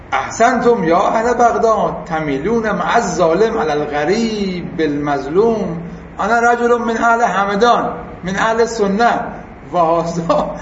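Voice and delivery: slow, measured reading of the Arabic; Arabic text recitation. Acted. Teacher reads the agent's plea aloud, slow recitation.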